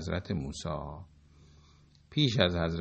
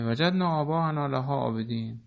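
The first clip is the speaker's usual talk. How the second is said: idol worshippers' reply; 3 semitones higher than usual. Retold or imitated. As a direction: voice the people answering proudly, a touch mocking. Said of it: "پاسخ اونها این بود که".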